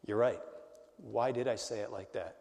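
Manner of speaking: soft, rueful retold reply; quiet admission. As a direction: concede it quietly, as if to yourself. Owning up in retold exchange.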